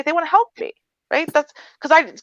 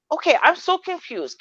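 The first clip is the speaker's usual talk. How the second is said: sweet confused; 7 semitones higher, 4 dB quieter than usual. Shown as a demonstration. Asking customer service for help, "so confused" high and helpless. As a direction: sound lost and sweet, pitched up. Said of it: "I'm gonna say it like that, and, like, I'm lost and confused".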